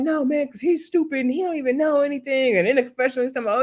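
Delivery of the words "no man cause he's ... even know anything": mock dismissive, pitched higher; dismissive Carlos quote. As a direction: toss it off like he couldn't care less.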